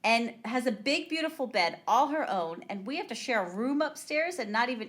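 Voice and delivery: high, building mock-angry complaint; pissed-off rant. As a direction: rail indignantly, peaking loud on the end. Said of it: "Kathy's so pissed".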